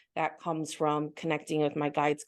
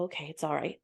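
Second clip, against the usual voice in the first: a gentle, softer self-soothing aside; soothing mom; 5 dB quieter, faster than usual. Retold or imitated. Woman mothering herself after lashing out, soothing. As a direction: softly reassure yourself like a mom. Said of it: "like, soothe myself".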